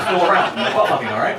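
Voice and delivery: laughing Jesus. Retold or imitated.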